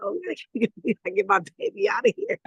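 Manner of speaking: high, laughing disbelief. Retold or imitated. Retelling her nephew's school smack, laughing high. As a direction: laugh through the retold reaction. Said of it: "I'm laughing and joking".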